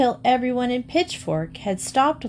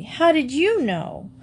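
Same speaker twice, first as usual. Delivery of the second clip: surprised question; 7 semitones higher than usual. A narrator's reading. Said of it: "cried Emily".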